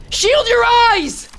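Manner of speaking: slow booming command; commanding shout. Acted. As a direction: bellow the order at the troops. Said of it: "Otis thundered in a commanding voice".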